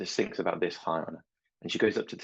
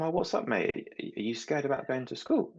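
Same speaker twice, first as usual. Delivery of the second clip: put-on higher-pitched check-in with a small child; lightly acted parental concern; 7 semitones higher than usual. Parent asking sad son about starting school, gentle concern.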